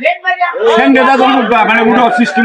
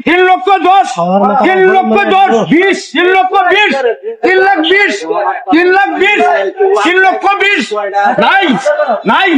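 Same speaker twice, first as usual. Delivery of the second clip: auctioneer; 2 semitones higher than usual. Acted. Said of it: "গাড়ি বিক্রি হবে নিলামে".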